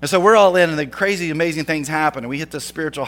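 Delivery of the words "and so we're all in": louder and higher, driving the point home; preacher's rising emphasis; emphatic restatement. Shown as a demonstration. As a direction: say it again with full force. Repeated line, second louder.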